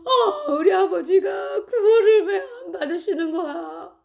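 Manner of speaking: slow, high, crying out through sobs; sobbing wail. Retold or imitated. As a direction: wail it while weeping. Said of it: "제가 막 울었어요".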